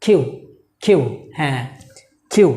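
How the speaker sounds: কিউ with a puff of air on the k; correct pronunciation. Shown as a demonstration. Teacher modelling the correct letter name, aspirated k. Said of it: "আমার সাথে বলুন আবার".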